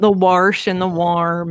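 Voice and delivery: slow "warsh" with a hard added r; West Virginia pronunciation. Shown as a demonstration. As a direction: draw out the r in "warsh" and "warm". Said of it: "West Virginia hillbilly kinda".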